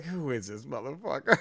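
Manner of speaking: quiet, exasperated grumble. Retold or imitated. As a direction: sigh it out, fed up. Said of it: "it sounds like an exasperate".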